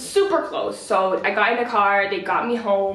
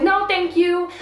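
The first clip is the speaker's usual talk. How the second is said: curt refusal; 7 semitones higher, slower than usual. Retold or imitated. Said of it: "So I said".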